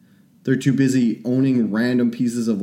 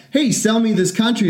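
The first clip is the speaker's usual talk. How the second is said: higher, lightly voiced pushy buyer; tossing off a cheeky offer to buy a country; mock blunt demand; 9 semitones higher than usual. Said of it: "It's like".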